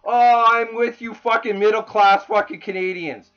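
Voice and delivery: mock the speech with angry contempt; sneering imitation of a politician's promise. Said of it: "you stand up there and you say".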